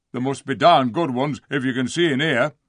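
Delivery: loud, grumbling dwarf voice; surly dwarf. A narrator's reading. Diggle scoffing at Eustace, surly. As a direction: scoff like a sour little dwarf.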